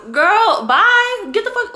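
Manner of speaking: loud, high dismissive outburst. Real, not acted. Ranting vlogger dismisses scammers with a loud high girl bye. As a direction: shout it off, done with them.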